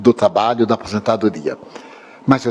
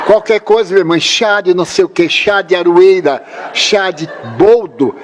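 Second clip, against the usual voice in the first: higher, drawn-out listing of each tea; mock relish; 7 semitones higher than usual. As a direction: savour each tea name slowly. Listing his mother's home teas.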